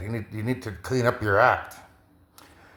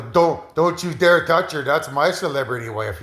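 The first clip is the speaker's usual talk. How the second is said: mock possessive warning; 2 semitones higher than usual. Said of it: "we'd talk like that".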